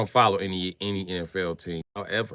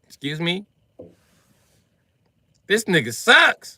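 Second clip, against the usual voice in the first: higher, louder, slow disbelief; incredulous; 13 semitones higher, 15 dB louder, slower than usual. Retold or imitated. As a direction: act appalled at the player. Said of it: "I was like".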